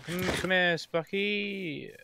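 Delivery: calling out. Real, not acted. Calling a pet in game.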